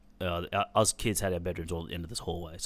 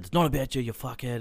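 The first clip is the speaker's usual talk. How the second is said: higher, louder snapped retort at the father; angry retort; 5 semitones higher, 4 dB louder than usual. Retold or imitated. Son snapping at his panicked father, angry and louder. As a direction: throw it back at him in anger.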